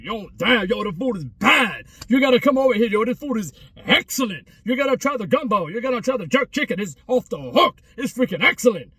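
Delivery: over-the-top restaurant hype, half acted; mock raving. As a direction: pretend to rave about the food. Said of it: "something I would rave about".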